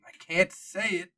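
lightly voiced old park docent, hesitant. Old docent telling the players what he cannot say, hesitant. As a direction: stammer like a guide who cannot say what he knows. GM voicing Jonah.

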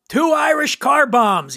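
high, drawn-out retold shout; mock shout. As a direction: call out the drink order, high and stretched. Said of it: "he shouts".

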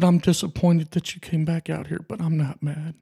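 getting emotional. Real, not acted. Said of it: "I did promise I'd get emotional".

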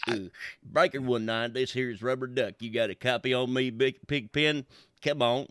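a hint of a slasher killer; lightly voiced creepy trucker on the CB; West Virginia serial killer voice. Shown as a demonstration. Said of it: "You got too much of that West Virginia, like, serial killer voice".

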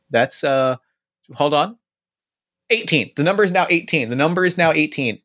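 robot voice. Acted. Android rattling off facts.

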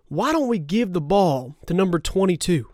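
lightly voiced head coach, a bit held back; badly faked coach impression; Mike McCarthy. Coach proposing a play, badly imitated. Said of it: "this is my horrible Mike McCarthy impersonation".

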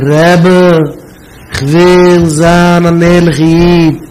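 drawn-out, singsong mock wail; imitated tearful plea. Student begging the Rebbe, imitated tearful plea. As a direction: plead slowly, lightly imitating weeping. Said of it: "mit angefangen weinen".

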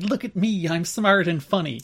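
put-on self-satisfaction; mock boasting. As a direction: playfully imitate someone showing off. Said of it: "It's like".

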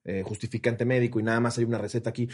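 evenly polite, keeping composure; composed pharmacy clerk. Retold or imitated. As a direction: imitate a patient clerk apologizing. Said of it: "el pinche temple".

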